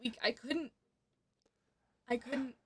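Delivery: soft, mildly tearful protest; small, hushed acted upset voice. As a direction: answer quietly, as if through tears. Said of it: "and she's crying".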